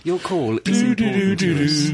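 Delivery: automated phone message. Pretend. Mock phone hold message.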